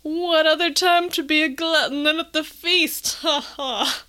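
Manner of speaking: hushed unvoiced mock-sly whisper. Retelling Father Blackwood's line to her co-host, whispered. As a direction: breathe it out like a smug schemer.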